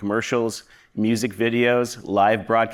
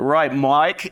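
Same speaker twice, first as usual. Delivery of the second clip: put-on Australian accent, higher and louder; 5 semitones higher, 4 dB louder than usual. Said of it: "I like my, uh, Australian accent".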